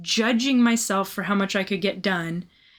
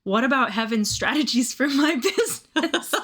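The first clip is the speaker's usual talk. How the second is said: laughing frustration; 3 semitones higher than usual. Retold or imitated. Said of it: "started getting a little frustrated".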